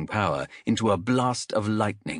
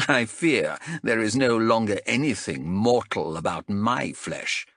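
bitter. Acted. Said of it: "Vamaya laughed bitterly".

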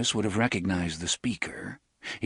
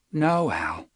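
humbly; 5 semitones higher than usual. Acted. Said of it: "he said humbly".

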